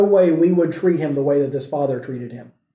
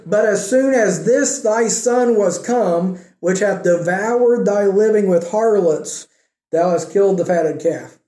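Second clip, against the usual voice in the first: dripping with hatred; 3 semitones higher than usual. Retold or imitated. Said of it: "Can you hear his voice just dripping with hatred".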